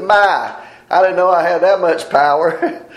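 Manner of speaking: a hint of a puffed-up bird marvelling at itself; boastful woodpecker. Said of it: "the woodpecker said".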